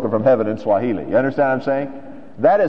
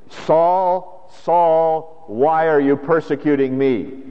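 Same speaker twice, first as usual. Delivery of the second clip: voice from heaven; 4 semitones higher, much slower than usual. Acted. Voice of Jesus from heaven.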